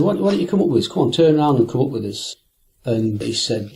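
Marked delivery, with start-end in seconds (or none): 0.0-2.4 calling out. Retold or imitated. Calling a passerby to join.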